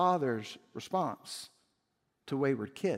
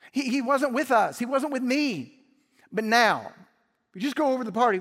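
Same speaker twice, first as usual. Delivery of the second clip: high, loud, urgent father's plea; father pleading with his son at the party's door; 6 semitones higher, 5 dB louder than usual. Acted. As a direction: beg your son to come inside.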